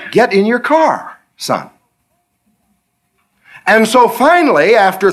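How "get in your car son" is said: slow, fatherly order; patient command. Retold or imitated. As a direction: settle the fuss slowly. God answers patiently.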